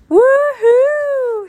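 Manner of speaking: high, loud, drawn-out whoop; excited cheer. A narrator's reading. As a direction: cheer with delight, well above your storytelling voice. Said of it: "she cheered".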